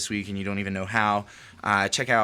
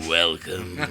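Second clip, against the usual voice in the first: lower, growly mock morning voice; 4 semitones lower than usual. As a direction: growl the welcome like a groggy morning.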